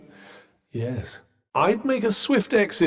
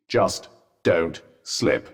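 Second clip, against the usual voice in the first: tense caution; 12 semitones lower, much slower than usual. Acted. Cautioning someone at a drop.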